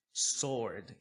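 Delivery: "sword" said as "sord", slowly; silent W. Shown as a demonstration. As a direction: leave the W out of sword. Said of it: "esse W nós não falamos".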